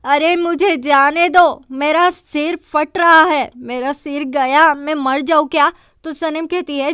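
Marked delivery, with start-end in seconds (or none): 0.0-5.7 loud panicked cry. Retold or imitated. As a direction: drag the words out, panicking loudly. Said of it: "वो जोर जोर से कहता है".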